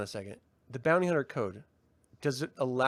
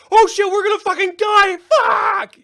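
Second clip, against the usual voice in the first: panicked high-pitched scream; demonstrating full-volume doomed panic; acted terror; 12 dB louder than usual. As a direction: scream it like you are about to die. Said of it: "like, terror or worry or concern".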